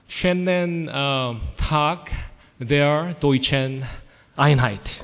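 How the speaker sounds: Schönen Tag der deutschen Einheit recited word by word in German; slow, halting German pronunciation of the whole greeting; practised German phrase. Shown as a demonstration. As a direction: pronounce the rehearsed German greeting in separate, deliberate pieces. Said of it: "I practiced this morning".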